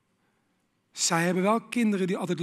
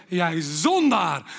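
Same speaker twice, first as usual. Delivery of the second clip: slow teasing accusation; mock rebuke; 3 semitones lower, much slower than usual. Preacher inviting someone to call him sinner. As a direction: drag it out as a playful scolding.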